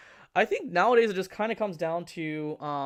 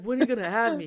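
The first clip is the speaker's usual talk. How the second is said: mock pleading, pitched up; begging friend; 7 semitones higher, 5 dB louder, faster than usual. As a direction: playfully imitate a friend asking to be included. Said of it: "He's been begging".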